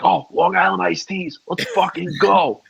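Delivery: hyped-up cheer. Retold or imitated. Regulars greeting the guy from Long Island, mock rowdy cheer. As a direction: imitate a bar crowd egging on a drinker.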